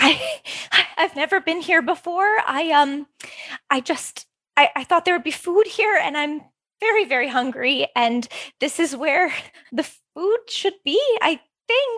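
nervous, dithering delivery. A newcomer answers a stranger's question, nervously dithering. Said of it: "as she's kind of like nervously dithering".

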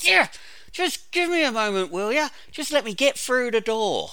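pitched well up, exasperated and frustrated. Speaker acts out coming home from a hard day at work, mock-frustrated tone. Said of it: "you say it in that tone of voice".

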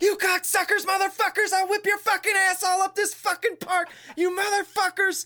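very high, clumsy preteen ranting voice. Retelling how Ricky comes to Angela's defense: imitating Ricky cussing. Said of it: "he's like".

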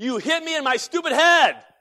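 put-on high, loud scream, repeated over and over. Retelling how a concussed man came out by the fire: imitating someone screaming. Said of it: "He comes out screaming".

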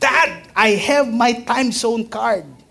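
acted, very high, eager, drawn-out, excited voice. A father recalls his son at the mall, imitating son's excitement.

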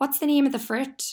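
put-on high-pitched, teasing kid voice.

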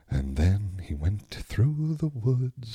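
slow, hushed, quiet bedtime-story voice. Showing how bedtime stories are told to a drifting-off child: quieter bedtime story voice. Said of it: "I start talking like this".

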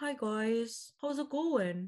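slow, dopey, dim-witted dog voice. Asked what their dogs would sound like as humans, the speaker voices one: dopey Moose voice. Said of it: "He's very like dopey and like not so like kind of slow".

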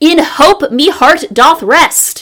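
slow, high-pitched yelling on every stressed word. Reading aloud an all-caps inscription on a bag: yelling. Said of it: "I will keep yelling them".

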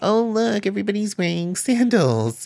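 high, mocking valley-girl gushing, mock admiration.

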